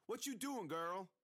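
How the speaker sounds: put-on high, loud call from a boy across the yard; calling out as Jimmy. A narrator's reading. Jimmy calling to the girl, a high taunting call. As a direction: shout it out like a taunting kid.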